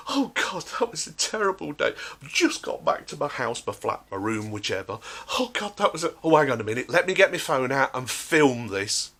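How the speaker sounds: lightly hammed weepy influencer; put-on distress; mock teary TikToker. Mimics TikTok crier.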